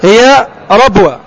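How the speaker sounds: slow, careful model of ربوة with a clear open ra; teacher's model reading. Shown as a demonstration. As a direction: spell out ربوة slowly for the student. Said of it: "هكذا تقرأها".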